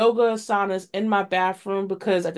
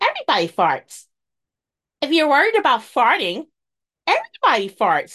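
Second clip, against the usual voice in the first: put-on yoga instructor voice, high-pitched, sing-song; 6 semitones higher, 4 dB louder than usual. Retelling how your instructor answered your worry, imitating the instructor's high-pitched voice. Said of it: "she's gonna get me for that voice".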